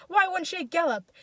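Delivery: high, loud question; crowd shout. A narrator's reading. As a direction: shout the question back defiantly. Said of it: "they shout in the crowd".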